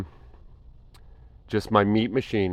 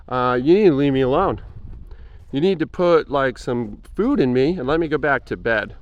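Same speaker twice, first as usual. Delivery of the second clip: lazy body talking back; 4 semitones higher than usual. Retold or imitated. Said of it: "And the body is like".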